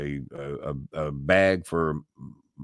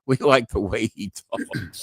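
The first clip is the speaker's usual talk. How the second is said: slower, lightly voiced Southern caller; Southern twang; 3 semitones higher, slower than usual. Retelling callers fond of his Southern accent, lightly Southern. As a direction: drawl it a touch like a Midwest caller. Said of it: "my Southern twang".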